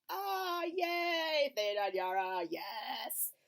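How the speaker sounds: high, bright fangirl cheering; excited cheer. Retold or imitated. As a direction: cheer for your favourite characters. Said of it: "So I'm like".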